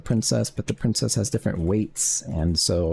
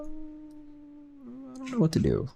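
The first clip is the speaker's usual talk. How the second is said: high wail; 8 dB quieter, much slower than usual. Pretend. Sudden high drawn-out wail.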